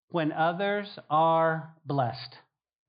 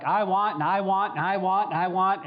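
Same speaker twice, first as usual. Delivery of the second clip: selfish wanting; 3 semitones higher, 5 dB louder than usual. Retold or imitated. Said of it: "I wake up and I'm like".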